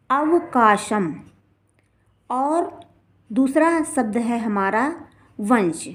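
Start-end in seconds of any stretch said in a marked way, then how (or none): 0.1-1.1 अवकाशम said slowly, closing on a clear m; final anusvara as m. Shown as a demonstration. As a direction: sound out अवकाशम with the final dot as "m". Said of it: "उसका उच्चारण मा करेंगे". (अवकाशम, अंत में साफ़ म का उच्चारण)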